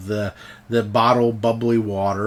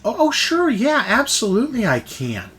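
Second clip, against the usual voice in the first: eager helper; 9 semitones higher than usual. Acted. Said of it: "She goes".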